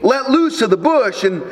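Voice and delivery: understated, untroubled voice from heaven; calm. Retold or imitated. Voice from heaven advising the dangling tourist, mildly acted calm. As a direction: answer evenly, lightly acted calm. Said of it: "The calm voice replied".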